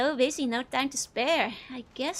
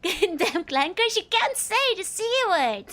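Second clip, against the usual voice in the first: mock bigot grumble; 6 semitones higher, 4 dB louder than usual.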